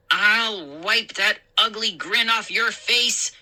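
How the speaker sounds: mock yell. A narrator's reading. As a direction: yell it like a pretend tough guy. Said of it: "I yelled at Chip".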